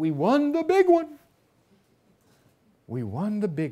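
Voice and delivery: very loud, big booming voice, swooping. Retelling a phone call after a Supreme Court ruling, in Thurgood Marshall's big booming voice. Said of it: "this big booming voice".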